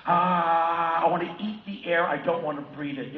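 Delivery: put-on loud, strained overwrought kid; mock-frantic drugged boy; wired kid on Ritalin. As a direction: blurt it out, jittery and loud. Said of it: "and you're like".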